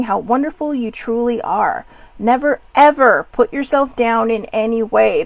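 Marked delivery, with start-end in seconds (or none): 2.2-5.2 firmly, louder; exclamation point at the end; emphatic. Shown as a demonstration. Insisting viewers never put themselves down, emphatic. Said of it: "There is an exclamation point".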